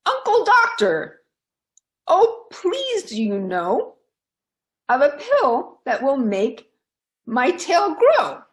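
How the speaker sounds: high, pleading cry to her uncle; high pleading call to the doctor. Acted. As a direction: beg him in a high, eager voice. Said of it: "she cried".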